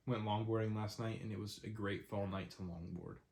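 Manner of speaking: blocked nose, nasal and congested; stuffy nose. Real, not acted. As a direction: talk through a stuffed-up nose. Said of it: "really stuffy".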